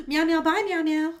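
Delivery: high, loud meowing kitty voice; Daniel Tiger voice. Acted. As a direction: meow like a puppet kitty. Kitty sign-off.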